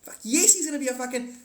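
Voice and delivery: mock fired-up voter shouting yes; excited yell. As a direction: blurt it out all fired up. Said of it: "And they're like".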